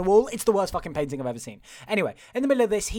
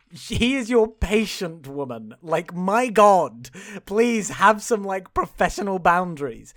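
exasperated rebuke; 5 dB louder, slower than usual. Acted. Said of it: "you're also like".

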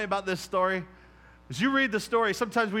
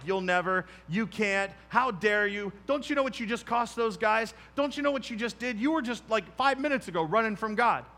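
the enemy's taunting voice, higher, rising toward the end; accusing enemy; 4 semitones higher than usual. Retold or imitated. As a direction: hammer him with guilt, growing shriller. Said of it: "the enemy was like".

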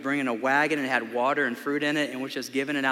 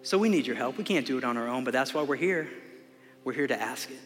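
closing prayer. Acted. Pastor prays over the congregation at the close, earnest prayer voice.

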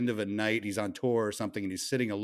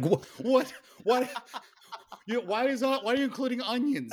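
much higher, hammed-up baffled questions; mock disbelief; 12 semitones higher than usual. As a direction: play it up as if the lyric makes no sense.

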